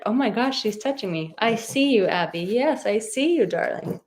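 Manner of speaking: high, delighted pet voice to the dog. Real, not acted. Dog touching her on stream.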